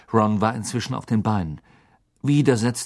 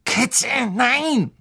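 desperate cry; 12 semitones higher than usual. Acted. Ron crying out for his rat.

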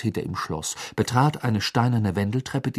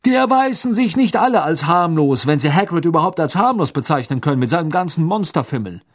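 high, loud, indignant minister; worked up; 8 semitones higher, 7 dB louder than usual. Acted. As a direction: scold with rising indignation. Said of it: "sagte Fudge aufgebracht".

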